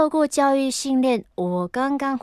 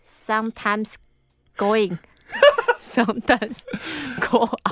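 mystic persona English. Acted. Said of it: "人设".

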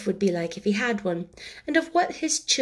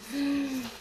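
soft higher-pitched sigh; 5 semitones higher, 7 dB quieter than usual. Real, not acted. Reader sighs after chapter ends.

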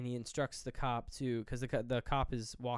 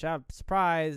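mock jump scare; 5 semitones higher, 8 dB louder, slower than usual. Killer pops up behind couch.

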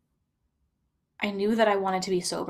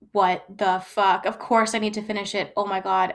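outraged inner voice; 5 dB louder than usual. Retold or imitated. Inner voice raging after partner took drink, indignant outburst. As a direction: act out the brain's disbelieving fury. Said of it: "my entire brain was like".

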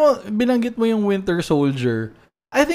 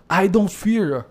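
put-on poor Mexican accent; 3 dB quieter than usual. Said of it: "That's my very poor Mexican accent".

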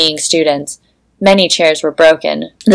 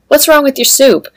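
nervous; 8 semitones higher than usual. Acted. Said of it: "Xander asked nervously".

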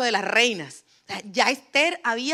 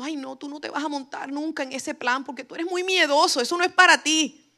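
mocking inner voice; 4 semitones higher than usual. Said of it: "¿Qué te dice tu voz?".

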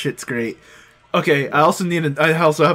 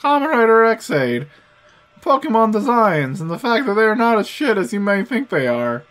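higher, awkward nerdy voice; 6 semitones higher than usual. Real, not acted. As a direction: talk up high like a shy nerd. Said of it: "that's my awkward voice".

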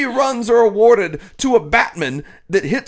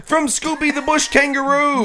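higher-pitched mock Australian accent; 5 semitones higher than usual. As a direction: read it out in a put-on Aussie accent. Reading an Australian fan's mail.

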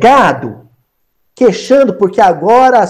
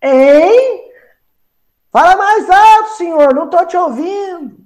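high, strained mock holler; hammed-up yell of someone who can't hear; calling up from a well; 11 semitones higher than usual. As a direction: shout up to someone far above. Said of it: "você lá no fundo do poço".

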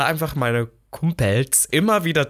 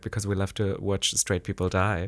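quoted punchline; 5 semitones lower, 7 dB quieter, slower than usual. Retold or imitated. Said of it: "hat Katja, glaub ich, gesagt".

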